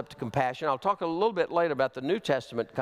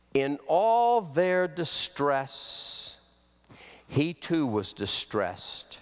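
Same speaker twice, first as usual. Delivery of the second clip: slow scripture reading; slower than usual. Real, not acted.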